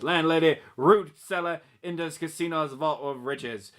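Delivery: sultry voice. Pretend. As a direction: read the blurb like a seductive romance narrator. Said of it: "read romance novels in that voice".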